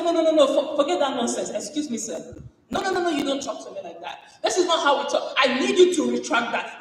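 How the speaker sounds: high, fast mock outrage with laughter; indignant retort. Colleague refusing to be disrespected, indignant and high. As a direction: play the offended colleague, laughing. Acted retort in meeting fight.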